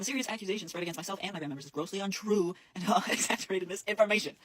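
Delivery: reading with incredulous laughter breaking in; laughing while mad. Real, not acted. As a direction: read it out, cracking up in angry disbelief toward the end. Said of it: "I'm sorry for laughing. I'm just mad".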